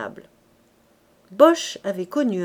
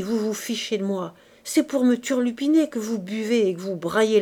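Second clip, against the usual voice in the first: put-on loud, raving drunkard shouting at phantoms; raving rant; 3 dB louder than usual. Coupeau shouting at imagined drinkers, raving angry. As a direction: bellow at the invisible crowd.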